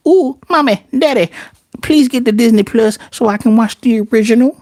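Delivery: put-on high, bright-eyed child begging; excited kid. Kid begging mommy and daddy for Disney Plus, high and eager. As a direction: beg like a little kid for the app. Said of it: "getting kids to go".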